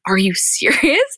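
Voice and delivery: slow, drawn-out stunned question; stunned disbelief. Retold or imitated. Hosts reacting to the proposal with slow stunned disbelief. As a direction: echo it back, floored by the news.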